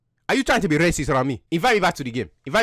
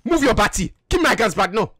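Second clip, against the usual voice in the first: demanding, put-on African accent; 3 semitones higher than usual. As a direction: press for answers in a mock African accent. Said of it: "so you don't have an African accent".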